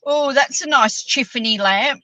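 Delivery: Tiffany said as Chiffany, light imitation; lightly voiced Neil accent; teasing mimicry of a friend in a shop; mock Neil accent. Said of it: "Neil James ... says".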